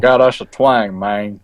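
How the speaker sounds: joking redneck twang; mock redneck drawl; redneck accent. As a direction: put on a country redneck twang. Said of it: "I do the redneck accent".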